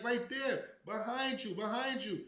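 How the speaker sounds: high, loud hurried whisper-shout; husband urging his wife to look; urgent pointing out. Retold or imitated. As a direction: point him out quickly. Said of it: "I'm like".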